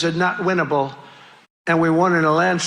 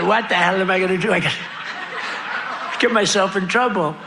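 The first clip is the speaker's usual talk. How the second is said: laughing quote; faster than usual. Retold or imitated. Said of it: "I said".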